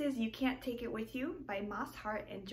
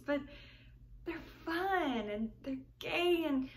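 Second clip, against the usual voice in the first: put-on heartfelt young woman explaining her family; earnest, wistful romantic heroine; tragic heroine sorrow. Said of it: "You Can't Take It With You".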